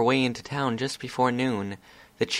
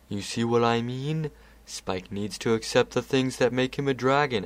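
lightly voiced patient Discord; Discord explaining. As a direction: reason with the child calmly. Discord continues.

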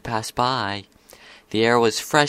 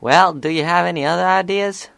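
high, louder filly voice; challenging filly; 8 semitones higher, 5 dB louder than usual. A narrator's reading. Filly asking her friend for better ideas, challenging. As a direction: toss it back as a challenge.

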